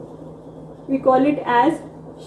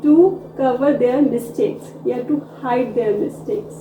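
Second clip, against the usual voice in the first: slow model sentence; much slower than usual. Shown as a demonstration. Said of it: "तो इसको English में बोलेंगे".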